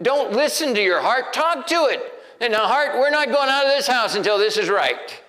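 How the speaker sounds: high and loud, commanding his own heart; rally your heart with full force; rousing pep talk. Retold or imitated. David preaching to his own heart, high and loud. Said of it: "he said".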